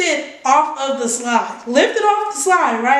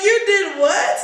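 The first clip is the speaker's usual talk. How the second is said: mom; 6 semitones higher than usual. Retold or imitated. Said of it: "My mom was like".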